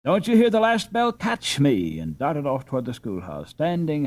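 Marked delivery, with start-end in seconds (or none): 0.0-2.0 high, loud teasing call; playful flirty challenge; coquettish. A narrator's reading. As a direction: tease them into chasing you. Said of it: "a coquettish".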